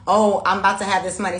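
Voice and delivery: a loud, flat statement of what's coming; the wrong affirmation. Shown as a demonstration. Reader shows viewers the wrong way: loud flat claim. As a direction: say it as a plain boast of what's coming. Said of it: "don't say your affirmation like".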